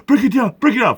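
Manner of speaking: high, quick repeated patter; mock calmer-down. Mimicking someone who tells him to settle down, mocking. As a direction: parody someone hushing you. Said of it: "Motherfucker sit there and say".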